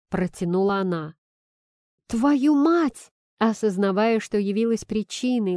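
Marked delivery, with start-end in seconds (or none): 2.1-3.1 loud, high furious curse; barked curse. A narrator's reading. Nikita realizing he caused her flight, loud barked curse. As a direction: bark it out in shock. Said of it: "рявкнул я".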